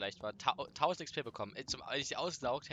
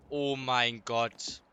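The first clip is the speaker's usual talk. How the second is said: slow, shaken breath after a scare; adrenaline shakes; 8 dB louder, much slower than usual. Real, not acted. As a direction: drag it out, heart still racing. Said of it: "Boah, mein Puls".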